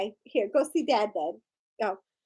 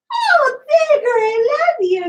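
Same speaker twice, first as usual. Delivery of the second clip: crying while cooing high to the pet; real tears of love, voice breaking; high, teary pet talk; tearful; 8 semitones higher than usual. Real, not acted.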